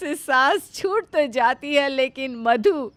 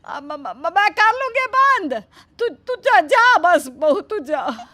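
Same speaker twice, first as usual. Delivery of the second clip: stammering fright; 4 semitones higher than usual. Acted. Stammering scared mother-in-law.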